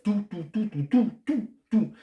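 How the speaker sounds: high, quick run of repeated words; excited rapid listing. Retold or imitated. Vlogger rattling off the film's nonstop events, excited. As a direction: pile them up breathlessly high.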